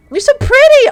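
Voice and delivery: mock gushing. Reading a compliment aloud.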